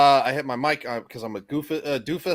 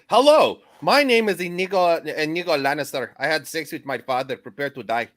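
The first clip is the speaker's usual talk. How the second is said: Inigo Montoya. Acted. Streamer reading a viewer's joke as Inigo, with a hammed-up accent. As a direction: open with a bold fake accent, then let it slip away. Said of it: "Why did you make it sound like Andor".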